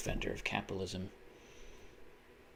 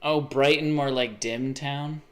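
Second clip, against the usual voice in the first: louder, with a slow drawn-out punchline; hammed-up pun; 4 semitones higher, 5 dB louder, slower than usual. Shown as a demonstration. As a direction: land the pun like a bad joke. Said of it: "I get it".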